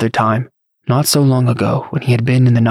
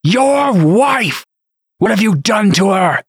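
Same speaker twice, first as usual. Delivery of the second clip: high-pitched cry of outrage; screamed accusation; 9 semitones higher, slower than usual. A narrator's reading. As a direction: demand an answer in fury. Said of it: "Dylan screamed".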